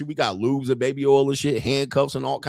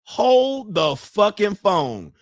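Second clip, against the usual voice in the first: mock disbelief; 6 semitones higher, much slower than usual. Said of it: "people are now going".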